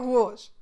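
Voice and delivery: "rouge" said as "rou-oge"; Saguenay pronunciation. Shown as a demonstration. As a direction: glide the vowel of "rouge" from ou to open o. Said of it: "les gens vont".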